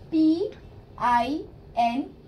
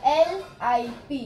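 slow spelling; slower than usual. Shown as a demonstration. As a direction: spell बी आई एन slowly, letter by letter. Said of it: "lip". (अक्षर-अक्षर धीरे बोलना)

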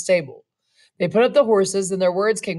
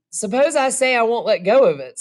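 a touch of a sneer; 3 semitones higher, 3 dB louder than usual. Acted. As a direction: challenge him with a sneer. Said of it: "with a sneer".

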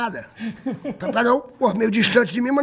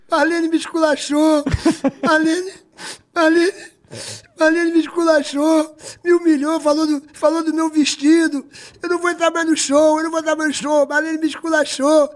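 higher, slower, mock-sobbing complaint; imitating a tearful TV star; 7 semitones higher than usual. A TV star crying to Serginho in her dressing room, higher and tearful. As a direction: whine it like a star in tears. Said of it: "a apresentadora chorando aos prantos".

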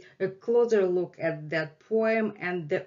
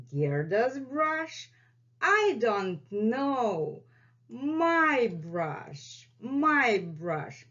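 playful dog voice; 2 semitones higher, slower than usual. Pretend. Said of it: "acted Gerda dialogue".

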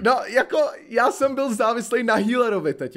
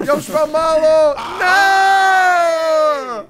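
slow, louder plea rising into a loud "Ne!"; desperate shout; 6 semitones higher, 6 dB louder, much slower than usual. Real, not acted. Player begging the healer, desperate loud shout. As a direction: plead and then cry out as you die.

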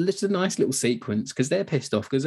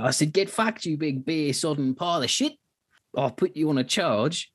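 raised-pitch mock rage, half-acted in retelling; enraged retort; 5 semitones higher than usual. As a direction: throw it back at him like an outraged sergeant. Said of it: "he's absolutely enraged by this".

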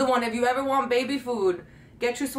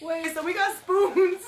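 laughing; 8 semitones higher, slower than usual. Real, not acted. Giggling fit while filming.

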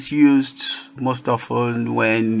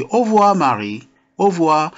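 youthful goodbye; 5 semitones higher, faster than usual. Acted. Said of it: "Jack is young, in his spirit".

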